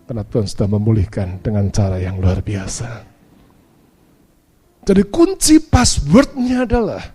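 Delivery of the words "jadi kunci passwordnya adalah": emphatic preaching. Real, not acted. Preacher drives home the key point.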